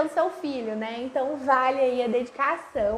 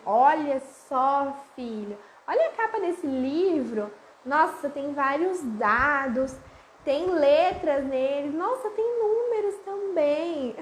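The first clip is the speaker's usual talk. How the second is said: put-on slow, inviting voice showing a child the cover; slow storytelling mom voice, rising in wonder; engaging read-aloud; slower than usual. Shown as a demonstration. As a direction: draw the child in, slowly and warmly. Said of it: "primeiro vocês olham a imagem".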